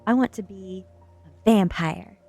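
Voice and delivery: loud narrated announcement; shouted declaration. A narrator's reading. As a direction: declare it boldly, well projected. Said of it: "I shouted to the shock".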